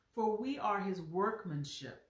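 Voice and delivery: each word laid out deliberately; slow it down so every word lands; said slowly. Shown as a demonstration. Preacher reading verse ten for the church: deliberate, measured. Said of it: "I'm gonna say them slowly".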